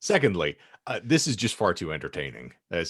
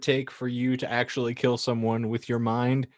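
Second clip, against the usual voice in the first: Michael Parks impression; 3 semitones higher than usual. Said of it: "I'm doing Michael Parks from Kill Bill Volume Two".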